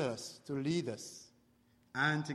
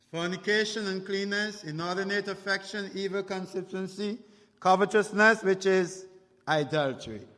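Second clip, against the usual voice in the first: fast verse reading; 4 semitones higher than usual. Real, not acted. Preacher reads a verse listeners can follow, reading fast. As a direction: run briskly through the list. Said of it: "I can read that verse fast".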